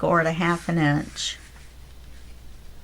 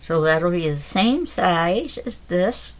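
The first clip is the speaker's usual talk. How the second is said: talking around a pencil held in teeth; words muffled by a pencil between lips; pencil in mouth; slower than usual. Real, not acted. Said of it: "Trying to talk with a pencil in my mouth".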